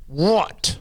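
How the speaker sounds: high, rising question; woman's challenge. Acted. Woman challenging the parrot, high rising retort. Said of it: "She goes".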